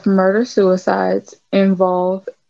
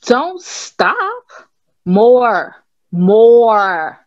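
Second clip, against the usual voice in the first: high plea building into louder demands; urgent pleading; 3 semitones higher, 3 dB louder, much slower than usual. Acted. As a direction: beg for it, growing louder. Voicing an urgent, pleading reply.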